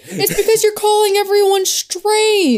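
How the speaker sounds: high, laughing retort; laughing protest. Real, not acted. Laughing objection to reading.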